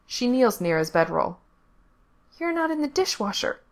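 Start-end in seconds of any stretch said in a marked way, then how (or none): 2.4-3.6 put-on much higher child voice; little girl voice. A narrator's reading. Little girl waking Frank at night, high child voice. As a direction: voice the small girl, high and bright.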